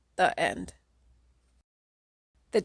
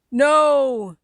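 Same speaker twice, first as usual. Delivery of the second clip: higher, much louder desperate cry; scream; 6 semitones higher, 9 dB louder than usual. A narrator's reading. The kid screams as the wish is spoken, loud and desperate. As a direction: scream it in horror. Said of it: "you scream".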